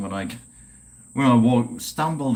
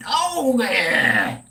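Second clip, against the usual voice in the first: delighted ooh; much slower than usual. Real, not acted. Tasting a chilled tequila.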